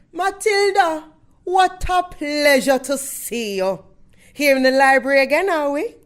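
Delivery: high, bright theatrical librarian voice; Missus Phelps the librarian. Acted. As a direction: play the sweet stage librarian. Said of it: "a little thing I'm gonna do as my character".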